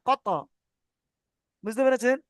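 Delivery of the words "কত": "কত" with a quick echo after the stop; bouncing final consonant in "কত"; qalqalah release. Shown as a demonstration. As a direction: release the end of "কত" as a separate bounce. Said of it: "আস্তে আস্তে ছাড়লে তাড়াতাড়ি হবে".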